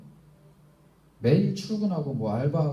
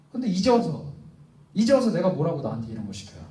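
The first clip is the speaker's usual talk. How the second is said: 1 loud protest; 4 dB louder than usual. Acted. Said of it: "내가 누구길래 하나님 나한테 이런 거 시킵니까?".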